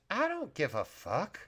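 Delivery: gruff dismissal; gruff short guy. Acted. Kitchen worker brushing off a whispered warning, gruff. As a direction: brush her off like a gruff little man. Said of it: "a gruff, short guy comes in".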